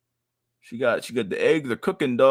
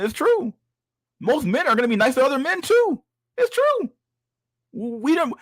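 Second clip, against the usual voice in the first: much higher, exasperated disbelief; scoffing at her soulmate hopes, pitched way up; incredulous rant; 11 semitones higher than usual. Real, not acted. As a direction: squeak out your disbelief at her. Incredulous rant at crying woman.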